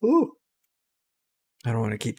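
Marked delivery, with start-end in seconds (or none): 0.0-0.3 a drawn-out sleepy yawn. Real, not acted. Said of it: "I'm already yawning too much".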